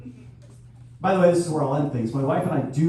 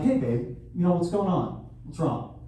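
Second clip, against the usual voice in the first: softer, tender fatherly check-in; gentle soothing; 5 dB quieter than usual. Retold or imitated. Father comforting his crying daughter, soft and tender. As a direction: soothe a crying child at bedtime. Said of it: "I'm like".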